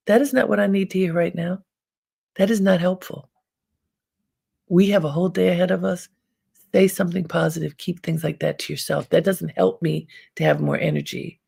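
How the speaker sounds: retold brisk, firm telling-off; mildly indignant retold reprimand; firm rebuke. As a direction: quote a coworker setting someone straight, quickly. Retold coworker's rebuke of a remark.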